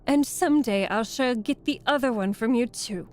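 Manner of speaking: loud, gloating threat; mocking witch. A narrator's reading. Witch threatening to take the other shoe, mocking. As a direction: taunt her loudly, relishing the threat. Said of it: "laughing at her".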